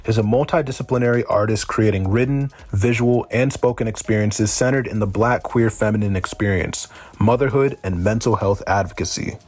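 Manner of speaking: even, measured introduction read from the page; formal bio reading. Acted. Host formally introducing a guest poet to listeners, bio read-out.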